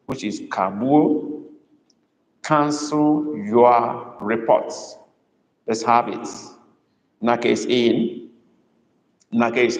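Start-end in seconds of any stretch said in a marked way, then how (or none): 2.4-5.0 slow, drawn-out "Cancel"; emphasis on cancel. Shown as a demonstration. Tutor repeating the sentence for students, "Cancel" slow and emphasized. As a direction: stretch "Cancel" and space out the words. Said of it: "Emphasis is on cancel".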